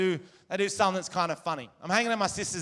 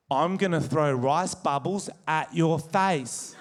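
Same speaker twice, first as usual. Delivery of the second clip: very slow, measured secret, fully voiced; lightly acted solemn confiding; mock child's whisper; slower than usual. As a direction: imitate a kid making a deadpan threat. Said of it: "and he whispers this".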